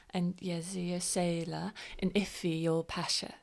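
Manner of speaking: soft unvoiced whisper. Real, not acted. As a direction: whisper it aside. Players whispering at the table.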